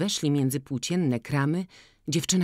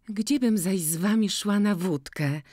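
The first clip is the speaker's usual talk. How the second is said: put-on lively village girl; 6 semitones higher than usual. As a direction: pitch it up and call out to Maciej.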